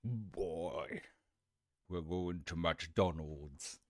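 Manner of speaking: slow mock deep voice; demo deep voice. Shown as a demonstration. Streamer showing viewers a deep voice, slowly. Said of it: "When I think of deep voice".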